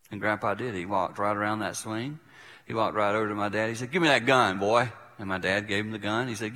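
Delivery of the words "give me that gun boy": louder, firm order; retold command. Grandpa ordering dad to hand over gun, firm. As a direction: take charge, brooking no argument.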